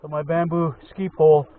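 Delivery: muffled behind a face covering; through a balaclava. Real, not acted. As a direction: speak through cloth over the mouth. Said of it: "Sorry if I sound muffled, I got this balaclava covers my face".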